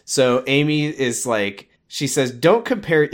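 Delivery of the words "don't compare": laughing quote. Retold or imitated. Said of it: "I love the way she says this".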